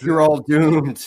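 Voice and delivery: slow, loud horror movie drifter; slow ominous drawl. Acted. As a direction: drag it out like a doom prophet. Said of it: "the Friday the Thirteenth guy being like".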